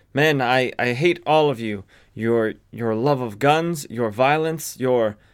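normal talking voice

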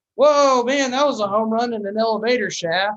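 acted taunting, loud jeering, pitched high. Retelling how they heckled players at a game, mock heckling. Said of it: "we just kept heckling".

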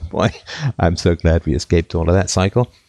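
mocking, sarcastic tone. Recounting france's economic troubles, the speaker remarks, sarcastic. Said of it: "he said sarcastically".

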